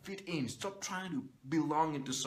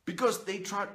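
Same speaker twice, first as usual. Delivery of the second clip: ordinary talk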